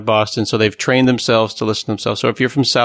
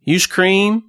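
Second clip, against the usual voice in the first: high, rising Alabama server's question; Alabama accent; 9 semitones higher than usual. Retold or imitated. Coffee server in Alabama asking a customer, in local accent. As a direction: run it together in an Alabama accent. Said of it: "I was in Alabama and".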